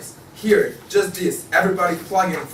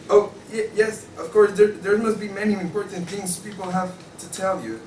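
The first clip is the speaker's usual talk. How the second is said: higher, flustered and unsure; a confused newcomer fumbling for words; bewildered visitor; 3 semitones higher than usual. Acted. Newcomer stumbles into the quarreling office, flustered and higher.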